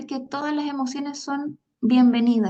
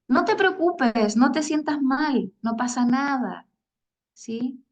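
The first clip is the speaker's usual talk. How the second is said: tranquilizing parent; slower than usual. Acted. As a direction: soothe the child gently, a bit slowly. Padre consuela al niño triste. (padre tranquilizando, más agudo y lento)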